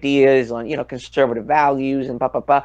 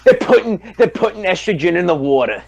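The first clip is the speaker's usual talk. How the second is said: higher, hammed-up paranoid warning; mock conspiracy rant; 3 semitones higher than usual. Riffing on Alex Jones, mock alarmed rant. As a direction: play a frantic talk-radio alarmist. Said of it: "watching Alex Jones".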